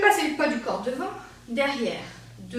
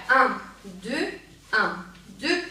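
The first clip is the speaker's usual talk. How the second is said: spaced-out count; 4 dB louder than usual. Shown as a demonstration. Dance teacher showing what not to do, spaced count. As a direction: separate beats with gaps between. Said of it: "Au lieu de faire".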